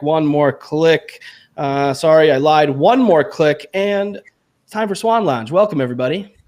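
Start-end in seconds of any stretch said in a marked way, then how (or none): 0.0-1.2 slow, stretched-out teasing; drawn-out teasing. Acted. Stalling while unmuting guests. 2.7-3.7 slow, stretched-out teasing; drawn-out teasing. Acted. Stalling while unmuting guests.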